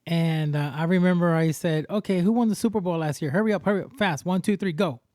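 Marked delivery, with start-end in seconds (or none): 1.9-5.0 fast, high, pushy quizzing; rushed quiz. Retold or imitated. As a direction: hurry the caller along. Quizzing scam caller.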